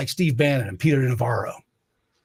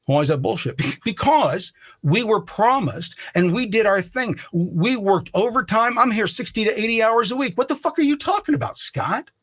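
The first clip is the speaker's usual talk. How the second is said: rising retold rant; 5 semitones higher than usual. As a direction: pitch climbing higher and higher into an angry rant.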